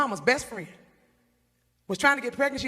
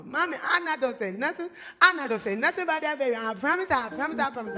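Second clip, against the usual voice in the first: put-on promising child; 4 semitones higher than usual. Timmy promising mama.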